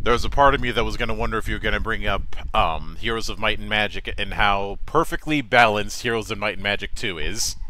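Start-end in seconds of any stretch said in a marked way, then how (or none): 2.6-7.6 sarcastic. Real, not acted. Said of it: "you can sense the sarcasm from my voice".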